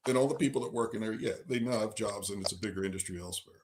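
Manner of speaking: talking with the hiccups; speech with hiccups in it. Real, not acted. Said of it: "do you still have the hiccups".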